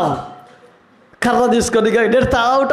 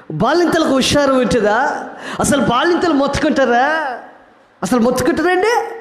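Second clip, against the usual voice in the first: laughing; 3 semitones higher than usual. Real, not acted. Preacher teasing the women.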